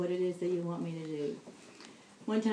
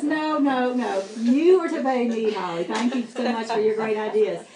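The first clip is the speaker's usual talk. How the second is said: firm voice of the Lord; 8 dB louder than usual. Retold or imitated. Voicing the Lord's reply.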